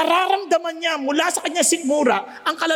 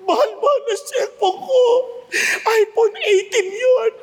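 mock crying; 7 semitones higher than usual. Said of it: "umiiyak-iyak ngayon itong si Renato".

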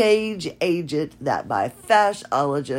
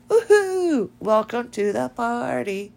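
very high, far-off party whoop; party trick voice; 9 semitones higher than usual. Pretend. Showing off a voice trick to her listeners, high party whoop. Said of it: "So a party trick".

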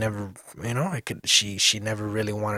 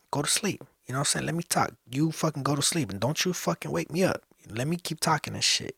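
softer, higher-pitched urging; hushed mock warning; retold bedtime instruction; 4 semitones higher, 5 dB quieter than usual. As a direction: tell them softly, pitched up. Retold warning to whoever he stays with.

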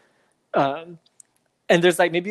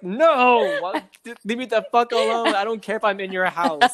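higher and faster, a playful leave me alone; half-joking irritated grumble, higher and quick; mock groggy rant; 4 semitones higher than usual. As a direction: rush out a fake-annoyed brush-off. Groggy friend telling others off.

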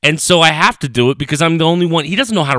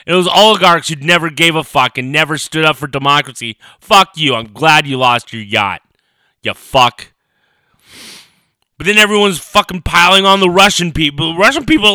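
angry cursing; 2 semitones higher, 4 dB louder than usual. Real, not acted. Cursing oligarchs and Putin.

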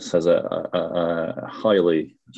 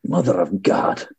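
a hint of a Russian accent, leaning on mother; light put-on accent for the catchphrase; mock Russian accent. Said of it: "doing a Russian accent".

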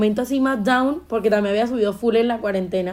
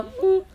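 timid hum; 8 semitones higher than usual. Retold or imitated. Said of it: "yo temblaba, yo no le podía decir nada".

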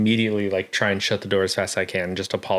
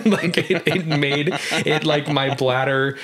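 words broken by real laughter, higher and slow; laughing; 6 semitones higher, slower than usual. Real, not acted. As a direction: giggle through it, embarrassed. Laughing at own embarrassment.

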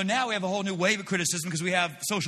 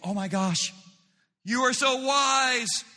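mock fawning praise; 5 semitones higher than usual. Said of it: "That person wants, wants you to go".

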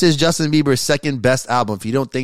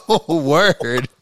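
laughing; 3 semitones higher, slower than usual. Real, not acted. Laughing at annoyed friend.

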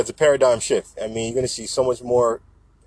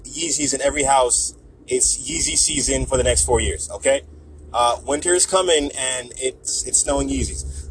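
lightly voiced celebrity impression; hint of a star issuing decrees; a rapper. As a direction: declare it in halting phrases like a rapper-president. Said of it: "it's my best rapper impression".

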